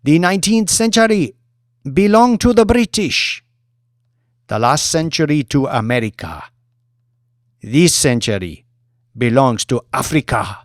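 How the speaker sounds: a showwoman working a hall of presidents; Mamadou's grand address. Acted. Mamadou's toast speech.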